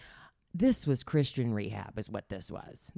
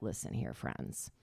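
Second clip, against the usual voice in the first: stern retort; 5 semitones lower, 9 dB quieter than usual. Retold or imitated. Retort to advisers.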